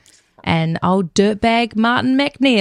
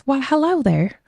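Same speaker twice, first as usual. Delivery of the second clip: nanny's greeting; 5 semitones higher than usual. Retold or imitated. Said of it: "this woman approaches, says".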